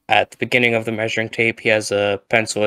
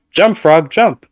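loud, high command shout; yelling at the frog; 6 semitones higher, 8 dB louder, slower than usual. Retold or imitated. Scientist yelling at frog to jump. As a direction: bark the order at the frog.

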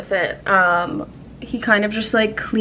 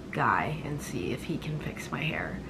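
whispering; 6 semitones lower, 11 dB quieter than usual. Real, not acted. Trailing aside about her hairdresser.

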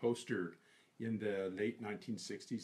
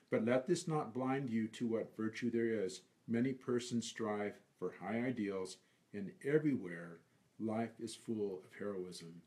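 poem recitation. Acted. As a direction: linger over each phrase of the poem.

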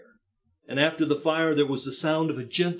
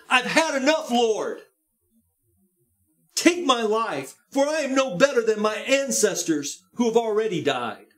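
weary Elijah; 5 semitones higher than usual. Acted. Elijah's despairing prayer voiced.

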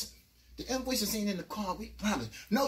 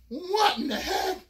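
slow, much higher, laughing; bewildered; 9 semitones higher, 4 dB louder, slower than usual. Retold or imitated. Narrator waking up in the station. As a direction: drag out the confusion. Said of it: "I was like".

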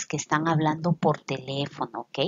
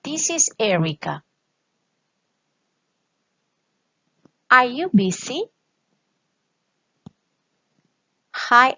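model reading for repeating. Shown as a demonstration. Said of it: "Repeat after me".

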